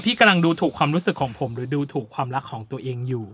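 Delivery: a hint of Phil's hurt, said quietly. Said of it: "แล้วฟิลตอบว่า".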